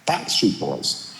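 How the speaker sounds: low, slow, hushed name drop; hushed reveal. Retold or imitated. Pop star hushes the band name to the host, slowly. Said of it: "He goes".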